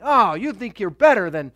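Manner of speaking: mock-proud challenge with punched words; a touch of scornful pride. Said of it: "in her pride".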